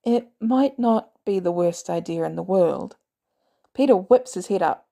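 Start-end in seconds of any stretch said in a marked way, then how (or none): 0.0-3.0 cautious. Acted. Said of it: "Barnes says cautiously".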